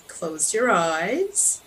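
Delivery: slow, unhurried breathing instruction; guided meditation. Real, not acted.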